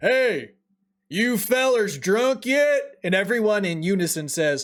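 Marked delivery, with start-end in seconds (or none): 0.0-2.8 high, drawn-out, hollering yell. Speaker telling a story acts out the bartender calling to the bar, retelling the bartender's yell. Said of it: "he yells out loud".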